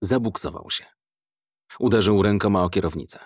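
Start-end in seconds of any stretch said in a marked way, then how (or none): none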